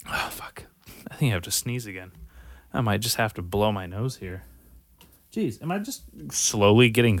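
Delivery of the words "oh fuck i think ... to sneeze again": whispered, fast, sneeze coming. Real, not acted. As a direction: hush it out before the sneeze. About to sneeze.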